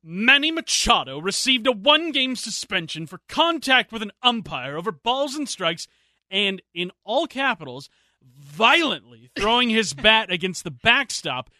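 put-on prim, indignant old-timer reading; stuffy old person voice. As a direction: read it like a fussy, offended elder. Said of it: "in my best stuffy old person voice".

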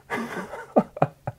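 a high, breathless, soft laugh; high, airy giggle after the story. Real, not acted. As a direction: let out a small embarrassed giggle. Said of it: "laughing at own story".

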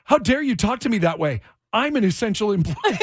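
indignant; acting offended, like a boss; haughty. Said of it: "She goes".

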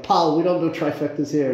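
high, put-on Scottish bookie voice; a Glasgow betting clerk brushing off a punter; Scottish accent. Betting shop clerk telling an Australian punter off, in a Scottish accent. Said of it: "And my Scottish accent".

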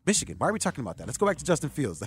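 fast, offhand mock of Pete, brushing the question aside; matter of fact. Imitating Pete's fast, dismissive pick to the host. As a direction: rattle it off like it's obvious. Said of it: "it's just, like, so matter of fact".

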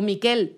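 Miquel stressed on the last syllable; final-syllable stress. Shown as a demonstration. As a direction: say Miquel as mi-KEL. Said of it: "si tú lo pronuncias así".

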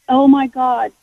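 earnest, understated appeal to God; sincerely meant. Retold or imitated. Guest retells her plea to God, sincere. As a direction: say it meaning every word. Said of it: "but you meant it".

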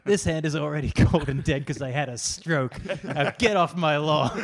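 put-on loud crotchety old-man bark; grumpy old man. Joking old man yelling off his lawn, loud and cranky. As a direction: shout it like a cranky old guy guarding his yard.

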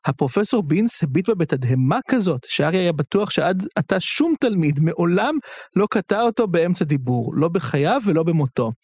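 expressive audiobook-style reading; story narration. A narrator's reading. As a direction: read the scene aloud with lively intonation. Reads novel narration aloud. (הקראת סיפור בהטעמה)

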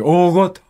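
大ごと in Kumamoto dialect, like Oh my God; Kumamoto dialect oogoto. Shown as a demonstration. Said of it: "同じ発音で".

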